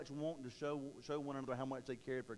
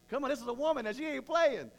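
fired-up preaching; 9 semitones higher, 7 dB louder than usual. Real, not acted. Preacher exclaiming about Mary.

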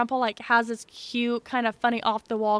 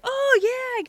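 imitating grandpa; 13 semitones higher, 5 dB louder than usual. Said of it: "my grandpa's like".

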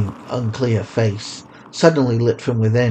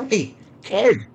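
calling out; 9 semitones higher than usual. Acted. Woman calling from alley.

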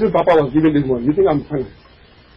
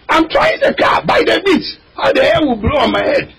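mock car owner; 6 semitones higher than usual. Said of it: "I'm trying it (car owner)".

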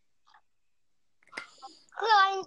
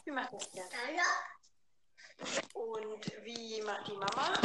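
put-on reading to a toddler; 4 semitones lower, 9 dB quieter than usual. Asking a toddler animal sounds.

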